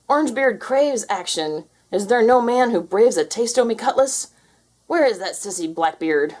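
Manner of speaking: cat hamming up a pirate; pretend pirate. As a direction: play-act a swaggering pirate. Garfield playing pirate.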